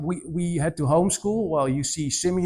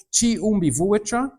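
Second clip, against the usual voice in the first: slow careful pronunciation; 5 semitones higher than usual. Shown as a demonstration. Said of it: "and I say it slowly now".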